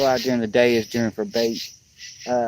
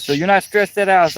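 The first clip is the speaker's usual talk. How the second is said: high, louder mock wife; wife's voice again; 7 semitones higher, 5 dB louder than usual. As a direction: squeak it up like his wife pressing him. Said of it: "she goes".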